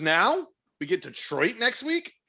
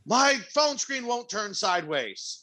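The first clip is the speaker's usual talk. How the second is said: higher, drawn-out dad complaint; exasperated dad; 7 semitones higher, slower than usual. Retold or imitated. Dad calling his kid about the phone, imitated complaint. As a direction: whine it slowly like a baffled dad. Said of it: "my dad was like".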